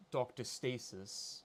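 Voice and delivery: very prim and proper, slow; measured, prim enunciation; Doctor Stasis. Shown as a demonstration. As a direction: say it slowly, with proper precision. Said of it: "very prim, proper".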